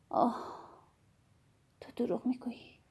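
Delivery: soft, unvoiced spirit whisper; flattering ghostly whisper. A narrator's reading. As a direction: breathe it like a coaxing ghost. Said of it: "صدای متملق، آرام و مهربانشان". (زمزمهٔ آرام و چاپلوسانهٔ ارواح)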